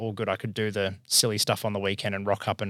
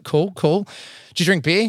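mock interviewer; 8 semitones higher, 4 dB louder than usual. Interviewers voiced, raised pitch.

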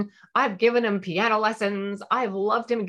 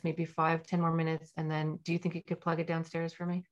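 calm technique; 2 semitones lower than usual. Shown as a demonstration. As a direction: soothe and connect before asking. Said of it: "apply the calm technique".

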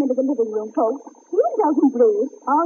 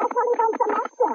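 parrot voice; 8 semitones higher than usual. Acted. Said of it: "We're short of actors, folks".

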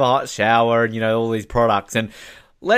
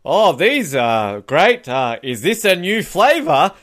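mock scripted line; 3 semitones higher, 3 dB louder, slower than usual. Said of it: "can you say this following line".

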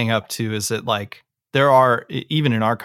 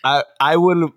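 put-on Italian accent; 4 semitones higher than usual. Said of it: "uh, Italian accent?".

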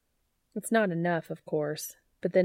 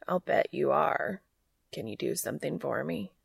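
hoarse with lust; 3 semitones lower than usual. Acted. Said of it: "voice hoarse with lust".

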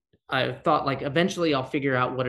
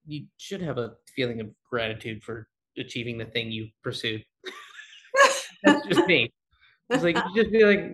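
normal talking voice

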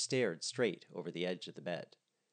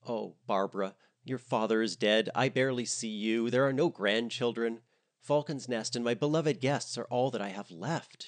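louder, pleading lament; crying; 3 semitones higher, 4 dB louder than usual. Acted. A mother guilt-trips her daughter, a mild mock cry. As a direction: push it out like tears are coming. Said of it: "she cried".

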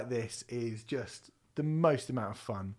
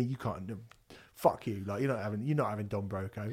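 softer, lower mock gatekeeper; a hint of sneering metal purist; mock metalhead scolding; 6 semitones lower, 6 dB quieter, faster than usual. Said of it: "metal cred crew going to me".

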